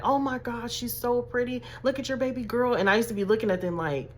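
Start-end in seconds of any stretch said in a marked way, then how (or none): 0.0-2.7 put-on light high cooing over a cute baby; gushing strangers. Strangers gush to mom about her pretty daughter, high and cooing. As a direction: coo at the little girl like a smitten stranger. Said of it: "people used to walk up to my mom like".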